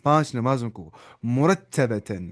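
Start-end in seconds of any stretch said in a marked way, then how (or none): 1.2-2.3 مرتبتاً drawn out very slowly, syllable by syllable; slow model word. Shown as a demonstration. Teacher to online class, slow model of مرتبتاً. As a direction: say مرتبتاً slowly so students can copy. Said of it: "قل، اب کہہ دیجئے".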